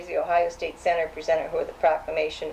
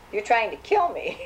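mock wail; 5 semitones higher than usual. Child's dramatic accusation.

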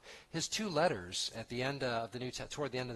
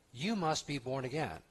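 YOU singled out as the key word; stress on YOU. Retold or imitated. Jesus getting right down to it with Nicodemus, stress on YOU. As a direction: point the phrase at the listener with weight on YOU. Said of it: "Not just generally, but you".

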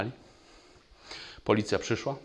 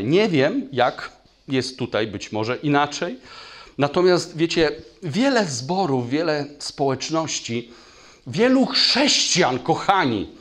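rising, louder sermon voice; preaching at full force; 6 semitones higher, 7 dB louder than usual. Acted. Preacher stirs the congregation, higher and louder. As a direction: build the sermon up with fire.

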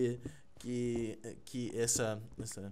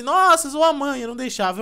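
mocking kid voice; 9 semitones higher, 8 dB louder than usual. Retelling a school meme, a higher bratty kid taunt. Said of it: "o molequinho olha pro outro e fala assim".

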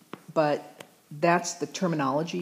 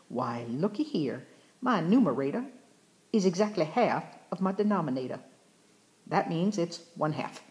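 put-on Southern accent. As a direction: act out a student with a Southern accent. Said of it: "where the Southern accent came from".

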